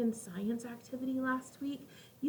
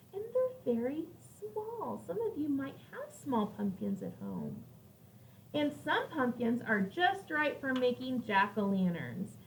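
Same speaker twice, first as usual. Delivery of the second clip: put-on reading to children. Teacher reading a pumpkin book to her class, gentle storybook voice. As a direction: read it like a picture book for little kids.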